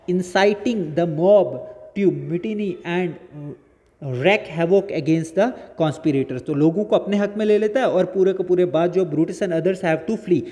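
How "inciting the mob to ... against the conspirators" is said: measured textbook reading, slow; slow reading aloud. Acted. Teacher reads the English summary to students, slow dictation pace. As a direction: read each phrase slowly and deliberately, as if dictating.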